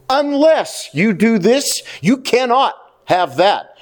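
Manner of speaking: slow, deliberate stress on "Unless" and "cannot"; stressed condition. Retold or imitated. Preacher relaying God's rule to the congregation, slowly stressed. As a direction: weigh out "Unless", then "cannot". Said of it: "God is stressing two words".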